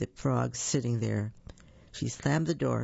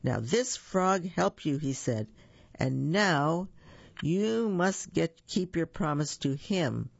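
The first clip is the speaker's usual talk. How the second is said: annoyed; 3 semitones higher, slower than usual. Acted. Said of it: "The king was annoyed".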